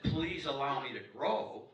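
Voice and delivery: slow, gentle plea; mild, courteous sign, unhurried; polite request. Acted. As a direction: ask it kindly, taking your time. Voices a polite sign, in contrast.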